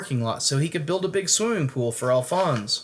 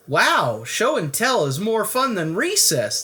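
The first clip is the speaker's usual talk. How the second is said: yelling; 7 semitones higher, 3 dB louder than usual. Acted. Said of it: "they yelled".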